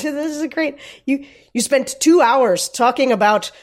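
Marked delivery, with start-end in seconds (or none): 1.0-3.5 a light Irish lilt on the movie line; Irish accent. Retold or imitated. Film fan quoting the movie, lightly Irish accent. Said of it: "Sarah's doing a spot on Irish".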